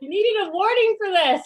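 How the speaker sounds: unvoiced whisper, choked with emotion. Real, not acted. The guest whispering, moved by the host's tribute. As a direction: breathe it out, too moved to voice it. Moved guest jokes through tears.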